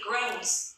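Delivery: "groans" said as groans, not grand; correct pronunciation. Shown as a demonstration. Teacher corrects students' reading of "groans". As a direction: stress the n-z ending of "groans".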